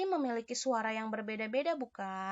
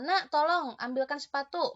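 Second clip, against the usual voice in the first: father asking; 4 semitones higher, 4 dB louder than usual. Retold or imitated.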